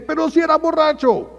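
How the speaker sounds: high, loud indignant protest; mock shout. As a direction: yell it back in her defence. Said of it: "aunque ella grite". (grito indignado y agudo)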